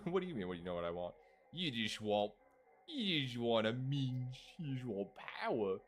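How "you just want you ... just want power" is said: slurry attempt at a British accent; put-on British accent. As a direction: voice the character in rough British. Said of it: "I'm trying to do a British accent".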